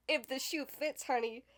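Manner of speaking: laughing it out, "honey" tacked on; chuckled sass. Real, not acted. Shading her family, laughing sass.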